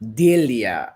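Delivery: "Dilia" with a y-glide, falling at the end; pronounced Dilia. Shown as a demonstration. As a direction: repeat "Dilia" as DIL-ya. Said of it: "how do you pronounce your last name".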